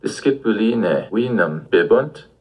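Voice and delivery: bibunt? lifted upward at the end, spoken slowly; a teacher models a Latin yes-no question, rising at the end; rising question tune. Shown as a demonstration. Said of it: "we also add a rising intonation".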